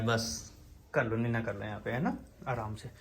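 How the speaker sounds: very soft, low lullaby tone; lulling softly. Real, not acted. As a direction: hush the dog to sleep. Lulling dog to sleep. (कुत्ते को सुलाते हुए बहुत धीमी, लोरी जैसी आवाज़)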